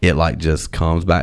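normal talking voice

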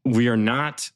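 through gritted teeth. Shown as a demonstration. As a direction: say it with jaw locked tight, teeth clenched. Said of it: "let's hear you say it in, in a gritted teeth".

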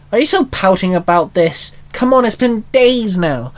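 rising, whining complaint; whiny moan. Acted. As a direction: moan at him like a bored friend. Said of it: "Penny moaned at him".

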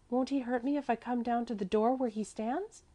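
put-on high child's question; little girl Mäzli. A narrator's reading. Little girl asking her protector about danger, high child's voice.

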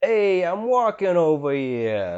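drawn-out nasal Trump; Donald Trump impression. Shown as a demonstration. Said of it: "That's my Donald Trump".

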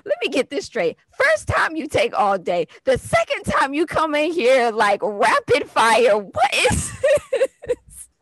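a hint of a bemused doctor; mock amazed anesthesiologist. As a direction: play the doctor poking fun. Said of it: "She goes".

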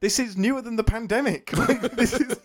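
speaking through laughter; laughing. Real, not acted. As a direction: laugh while talking. Laughing while telling.

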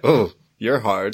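slow, put-on British accent; Ricky Gervais. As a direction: draw it out in a mock British accent. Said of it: "I just did a British accent".

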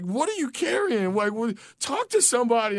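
lightly hammed-up worried questioning; concerned masseuse. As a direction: imitate her prying concern. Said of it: "And she's like".

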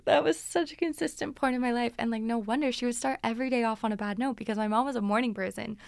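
normal talking voice

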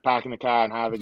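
light Boston accent, dropped r's. Shown as a demonstration. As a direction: say it like a Boston local. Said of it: "give us a Boston accent if you can muster one up here".

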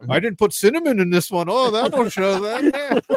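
hammed-up angry Wisconsin woman; Wisconsin accent. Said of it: "angry Wisconsin women".

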